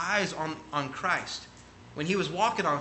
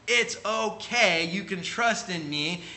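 put-on slow, higher reassurance to a child; reassuring dad; 4 semitones higher, slower than usual. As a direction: coax a scared kid, slow and gentle. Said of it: "get them to realize, like".

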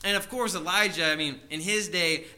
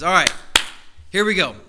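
bold prophet; 3 semitones higher, 8 dB louder than usual. Retold or imitated. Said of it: "and he says".

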